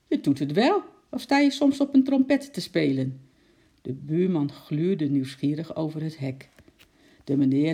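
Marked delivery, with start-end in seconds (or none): 0.1-3.2 loud, high accusing call; roepend. A narrator's reading. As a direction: call back to the neighbour, voice raised. Buren roepen naar elkaar. (luid verwijtend teruggeroepen)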